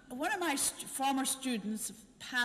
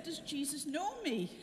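imitating an excited doctor, higher pitched; retold excited question; 5 semitones higher than usual. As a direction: ask it with eager, high-pitched wonder. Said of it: "And she got all excited".

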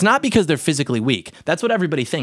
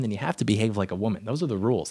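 ordinary delivery

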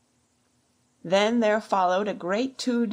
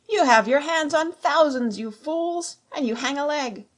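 high, exasperated tirade; raised, frustrated pirate rant; berating the gang; 7 semitones higher, 3 dB louder than usual. A narrator's reading. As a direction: scold the fools for holding back. Pew berates his idle gang.

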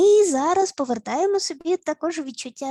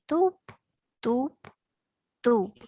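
calm stomping; much slower than usual. Shown as a demonstration. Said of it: "Це спокійні рухи".

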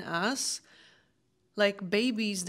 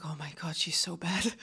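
much softer, lower mock aside; muttered disapproval; 3 semitones lower, 5 dB quieter than usual. Her mind watching her roll at BJJ, muttered disapproval. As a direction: mutter it under your breath, half-whispered.

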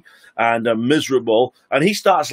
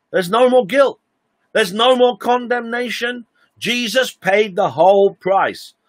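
rising preacher's triumph; preaching climax; 7 semitones higher than usual. Real, not acted. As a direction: lift the voice high and ring it out.

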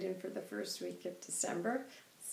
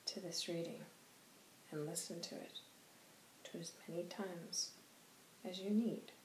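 softer, hushed elder's blessing; soft gentle counsel; 10 dB quieter than usual. Acted. White Hawk counselling parents softly, hushed.

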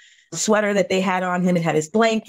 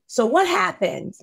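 anguished question; 9 semitones higher than usual. Real, not acted. Pleading question to God.

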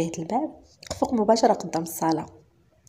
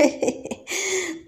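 laugh; 11 semitones higher than usual. Acted. Maid laughs at car name.

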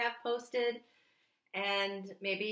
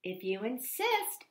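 sweetly; 3 semitones higher, 3 dB quieter than usual. Acted. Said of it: "answered the friendly ladybug sweetly".

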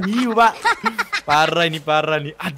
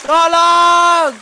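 mock cry for help; 6 semitones higher, 5 dB louder than usual. Calling for help on raft.

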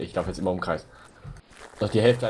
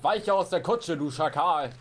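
quoting Ogün; 4 semitones higher than usual. Retold or imitated. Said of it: "Bei die Ogün-Zitat".

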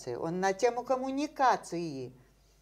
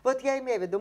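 usual speaking voice

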